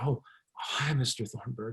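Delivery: quiet, secretive whispering. Retelling answering a call with two office mates nearby: imitating own past whisper. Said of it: "I immediately dropped my voice to a whisper".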